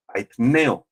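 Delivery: "aitneo" stressed on the E; accent on E. Shown as a demonstration. Preacher modelling a Greek word for listeners, "aitneo" stressed on E. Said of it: "con acento en la E".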